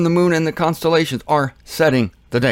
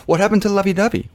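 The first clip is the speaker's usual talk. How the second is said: mock plaintive; 7 semitones higher, faster than usual. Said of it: "That's, that's the".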